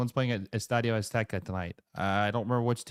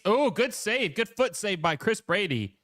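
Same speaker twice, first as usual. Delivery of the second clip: excited; 8 semitones higher than usual. Real, not acted. Streamer watching the match reacts to a save, excited burst. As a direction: jump up in real surprise at the save.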